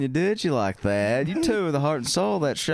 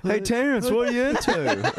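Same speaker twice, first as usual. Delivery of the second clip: creepy Paul Hayes voice; 8 semitones higher than usual. Retold or imitated. Voicing Paul Hayes in dungeon.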